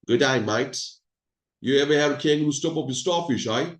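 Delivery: put-on light, joking Australian accent; attempted Australian accent. Presenter greeting guests from Australia in a mock Australian accent. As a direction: have a playful go at an Aussie accent. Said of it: "that's my attempt of Australian accent".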